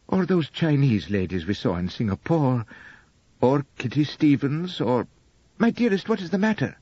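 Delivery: a gentle hint of a doting young wife; lightly voiced young wife, adoring. Narrator voices Elspeth.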